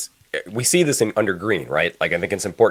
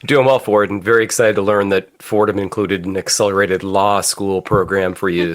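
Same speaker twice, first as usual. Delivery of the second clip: stuffy, muffled voice from a cold. Real, not acted. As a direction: talk through a blocked-up head cold. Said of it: "You got the little muffled voice".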